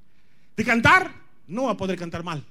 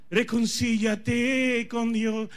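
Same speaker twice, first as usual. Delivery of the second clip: slow, gentle jingle line; 5 semitones higher, much slower than usual. Retold or imitated. Quoting the radio jingle.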